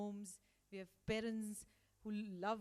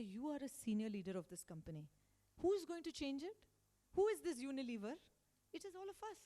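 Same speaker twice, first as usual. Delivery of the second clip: mock-angry, climbing higher and louder on the questions; retold angry scolding; 4 semitones higher, 4 dB louder than usual. Boss scolding complaining senior leaders, in mock anger. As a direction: scold the senior leader, pitch rising in frustration. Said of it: "And I get really angry".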